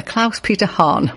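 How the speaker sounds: Klaus Peter Hahn said slowly, relishing it; slow savouring. Shown as a demonstration. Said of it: "What a lovely name".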